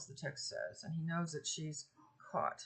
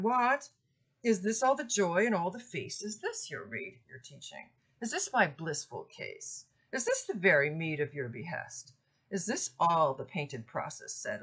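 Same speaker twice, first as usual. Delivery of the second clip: louder indignant verse reading at the start, then settling; poem reading; 4 dB louder than usual. Acted. Lecturer reading Criseyde's outraged questions. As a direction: read her outburst with mild outrage.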